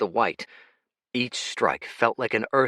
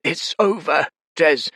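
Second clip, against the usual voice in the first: put-on rasping old voice; 7 semitones higher, 6 dB louder than usual. Fate tells Jez.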